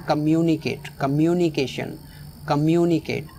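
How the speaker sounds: "कम्युनिकेट" with the weight on "म्यु"; stress on MYU. Shown as a demonstration. Teacher drills "कम्युनिकेट", stress on "म्यु". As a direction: lean on "myoo" in "कम्युनिकेट". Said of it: "M यू वाला जो portion".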